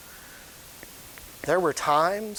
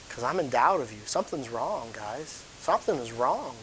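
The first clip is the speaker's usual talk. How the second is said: disappointed doubt; 3 semitones lower than usual. Acted. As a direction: let the voice sink with disappointment. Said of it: "I wish you could hear my voice now".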